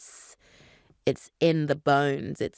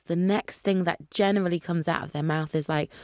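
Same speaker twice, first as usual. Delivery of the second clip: ordinary delivery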